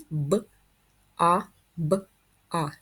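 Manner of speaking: "Б, А, Б, А" said one sound at a time with pauses. Shown as a demonstration. Teacher counting sounds of "баба" with class, separately. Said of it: "порахуємо кількість звуків у слові".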